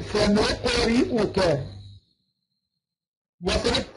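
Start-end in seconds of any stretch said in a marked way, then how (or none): 0.0-1.6 slow سنقرئك, "u" on the hamza; damma on hamza. Shown as a demonstration. Teacher showing how it is read, slow سنقرئك with "u". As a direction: sound out سنقرئك as sa-nuq-ri-u-ka. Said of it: "يبقى نقرأها إزاي؟".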